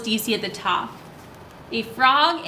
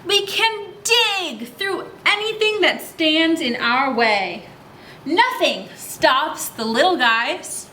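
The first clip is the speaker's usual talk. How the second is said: put-on reading to children; slower than usual. A narrator's reading. Reads book lines to kids.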